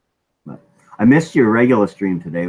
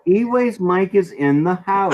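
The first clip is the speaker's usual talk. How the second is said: announcer voice; 11 semitones higher, slower than usual. Pretend. Announcing Mike's arrival.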